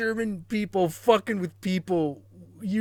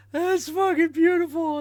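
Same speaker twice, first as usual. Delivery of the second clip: higher and louder, thrilled; delighted, louder; 8 semitones higher, 5 dB louder than usual. Real, not acted. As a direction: raise it with glee.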